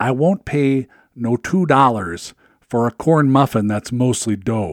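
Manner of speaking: Minnesota dialect accent, shown off. Quoting a playwright's test sentence, the speaker demonstrates a Minnesota accent. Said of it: "the key to the Minnesota accent is this sentence".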